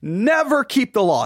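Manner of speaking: preacher stressing never. Shown as a demonstration. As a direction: push the word never. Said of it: "And I stress that over".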